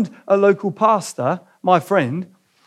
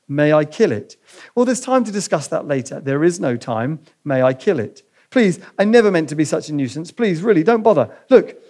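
reading a novel passage aloud to the church; voicing the ghost and angel lightly in turn; story reading. Preacher reads a Lewis passage to the congregation, story reading.

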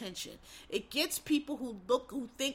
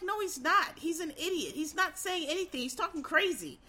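incredulous rebuttal; 6 semitones higher than usual. Retold or imitated. Acts out incredulous rebuttal to praise.

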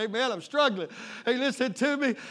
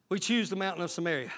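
soft lower repeat; 6 semitones lower, 8 dB quieter, faster than usual. Real, not acted. Preacher echoes his own line to the church, dropped low and soft. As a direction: drop low and soft, quicker. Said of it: "repeated much softer".

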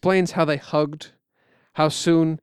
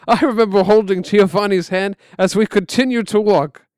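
put-on higher, louder old uncle; uncle's voice; 7 semitones higher, 6 dB louder than usual. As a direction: voice the uncle remembering. Uncle voiced in retold story.

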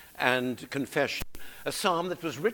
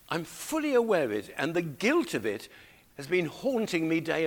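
David's anguished confession; 3 semitones higher than usual. Acted. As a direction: pitch leaping up in guilt. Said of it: "this is how he's feeling".

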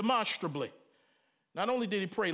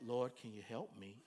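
much lower, softer prim prayer; mock proper prayer; 11 semitones lower, 9 dB quieter than usual. Mocking a stiff, proper prayer in quiet. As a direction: pray timidly, too polite. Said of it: "He didn't just say".

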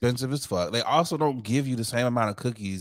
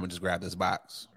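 whisper; 4 semitones lower, 6 dB quieter than usual. Retold or imitated. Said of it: "or was this".

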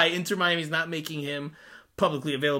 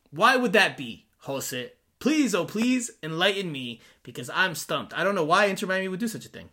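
feigned bafflement, louder on the opening question; sarcastic; 3 semitones higher, 3 dB louder than usual. Real, not acted. Host asks co-host why the club would hide a player, sarcastic. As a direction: plead mock-earnestly to be enlightened. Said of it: "That's sarcasm, by the way".

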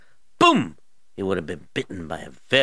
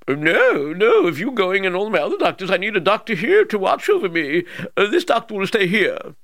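high, loud royal command; king voice; 10 semitones higher, 7 dB louder than usual. Acted. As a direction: bark the order as a king.

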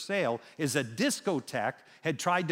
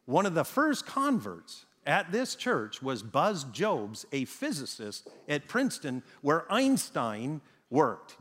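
slow, spaced-out repetition for emphasis; deliberate repeat; slower than usual. Real, not acted. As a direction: repeat it slowly so they catch it. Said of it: "I'm gonna repeat that".

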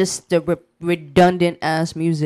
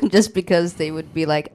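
ordinary talk, nothing marked

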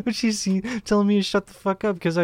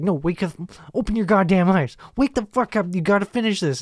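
higher-pitched mock exasperation; exasperated parent; 4 semitones higher than usual. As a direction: retell it as a frazzled parent at wit's end. Retells pleading with a feeding baby.

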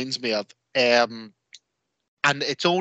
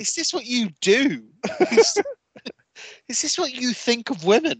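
put-on accusing girlfriend; 9 semitones higher than usual. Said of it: "You're like".

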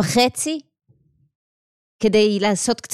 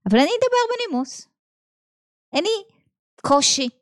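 much higher, sweetly put-on "polite" voice; mock sugary politeness; 8 semitones higher than usual. Teacher mocking her own cutting courtesy, sugary and high. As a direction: sound sickly sweet and fake-polite.

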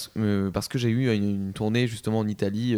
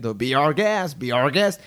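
Ewan McGregor; much slower than usual. Retold or imitated. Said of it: "j'avais l'impression d'être mexicain".

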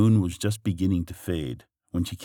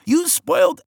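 high, loud screaming villain; 5 dB louder than usual. Acted. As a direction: shriek it like a furious villain. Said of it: "he was shouting at her".

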